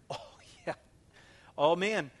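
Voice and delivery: whispered oh yeah; whispered aside. Real, not acted. Pastor knowingly answering his own question, whispered.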